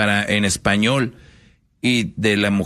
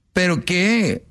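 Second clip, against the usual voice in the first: put-on insistent girlfriend; 7 semitones higher, much slower than usual. Woman insists, acted.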